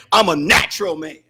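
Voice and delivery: mild mimic of a man dodging blame; imitating Brother Donald. Preacher retelling Brother Donald's excuse, low mock voice. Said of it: "justify it by saying".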